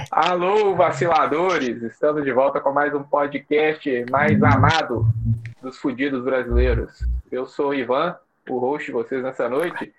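slow, stretched announcer delivery; podcast host intro. Acted. Host opening the podcast for listeners, slow announcer intro. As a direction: present the show with drawn-out words.

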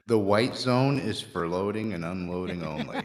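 announcer line broken by laughter; laughing announcement. Shown as a demonstration. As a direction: read it while laughing. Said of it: "train station or a bus station announcer".

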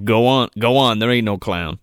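low dismissive character voice; Joe. Retold or imitated. Retelling Joe brushing off the clown, low imitation. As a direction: imitate an unbothered man waving someone off. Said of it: "He's like".

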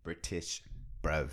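London-style put-on accent; mock British accent. Teasing a friend, mock British accent. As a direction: play at being British. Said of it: "It's a British accent, bruv".

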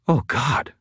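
high, hushed frightened woman's voice; small, high, scared voice; rough whisper. Acted. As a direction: gasp it out in fear. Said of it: "her voice a rough whisper".

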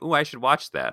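high-pitched imitation of eager viewers; mock interest. Imitating people who see the Oscar clips, eager. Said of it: "people are gonna be like".

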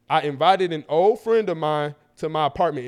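deliberate, measured read-aloud; unhurried, spelled-out reading; breaking it down. Shown as a demonstration. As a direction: read it out carefully, word by word. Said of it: "now I'm breaking it down for".

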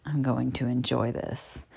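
low, very soft gloating; deep, amused. A narrator's reading. Narrator voices man savouring his control, low amusement. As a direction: murmur it deep and pleased. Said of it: "he says with a deep chuckle".

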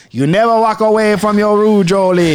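Cajun drifting into a hint of Jamaican patois; a sudden lilt of Jamaican patois on the roux advice; slipping into Jamaican patois. Host scolding himself for leaving the roux, in light Jamaican patois. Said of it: "You've had it solid Cajun that whole time".

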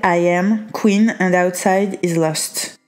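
reading English aloud in a strong French accent, some words slowed. Real, not acted. Reading the English card text to the viewer, French accent. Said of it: "je te lis avec mon accent, euh, bien pourri".

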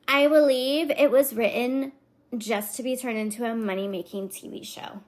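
lightly voiced Valley Girl verdict; a hint of Valley Girl, tailing off; mildly mocking reviewer reading. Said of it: "the Valley Girl kind of is my go-to voice".

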